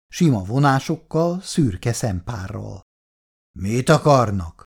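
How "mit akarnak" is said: mildly gruff challenge; curt snap. A narrator's reading. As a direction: snap the question at unwelcome callers. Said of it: "förmet Szabóékra". (mogorván rájuk förmedve)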